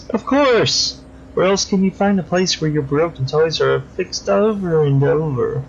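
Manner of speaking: lightly voiced creepy killer, silky and mocking; creepy villain. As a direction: purr over the victim like a polite psychopath. Crosscut gleefully describes cutting.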